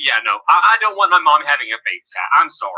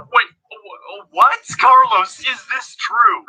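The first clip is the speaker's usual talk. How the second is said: stunned disbelief, rising to a near shout; shocked; 3 semitones higher, much slower than usual. Real, not acted. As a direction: gasp out the question in disbelief. Reacting to shocking clip.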